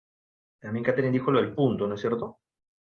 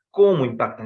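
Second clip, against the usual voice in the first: "¿Cómo impactan?" louder, as an exclamation; exclaimed; 5 dB louder than usual. Shown as a demonstration. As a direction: call out "cómo" with surprise. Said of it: "Es una exclamación".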